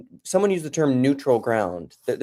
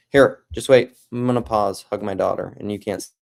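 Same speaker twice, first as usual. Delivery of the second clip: usual speaking voice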